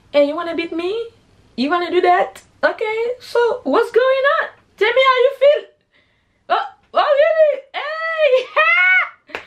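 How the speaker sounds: very high squeaky mock challenge; hammed-up taunting. Storyteller daring her rival to fight, squeaky hammed-up taunt. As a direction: climb into a squealed, silly "Hey!".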